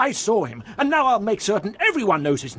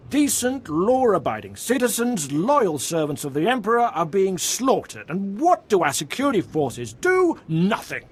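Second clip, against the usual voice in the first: indignant raised-voice demand for justice; podniesiony głos. Acted. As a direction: protest heatedly to a superior, voice rising at the end. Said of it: "Why are you yelling at me?".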